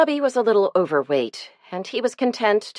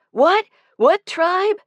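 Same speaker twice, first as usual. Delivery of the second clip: put-on surprised kids; 13 semitones higher, 4 dB louder, slower than usual. A narrator's reading. Boys surprised by the rumor.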